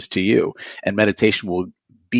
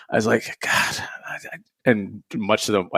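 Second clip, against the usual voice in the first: whispered; 4 dB quieter than usual. Real, not acted. Grief over mom, whispered.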